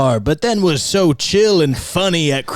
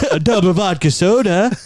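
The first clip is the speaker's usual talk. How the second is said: laughing drill sergeant; 2 semitones higher than usual. Pretend. Drill order through laughter.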